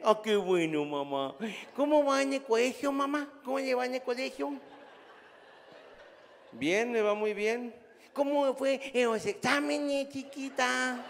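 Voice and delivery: high, slow syrupy coo; silly sweet-talking voice. Retold or imitated. Grandpa on the phone quizzing granddaughter, syrupy coo. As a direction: sweet-talk the little girl like a doting fool. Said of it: "hablando como pendejo".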